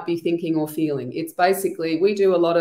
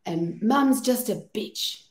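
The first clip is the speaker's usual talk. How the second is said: mock blunt therapist; 4 semitones higher, 4 dB quieter, slower than usual. Shown as a demonstration. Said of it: "so I could say".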